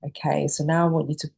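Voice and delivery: unhurried breathing guide with long pauses; calm meditation instructor pacing the breaths; guided meditation. Acted. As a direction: gently lead them through each breath, leaving space. Leads the opening guided breathing.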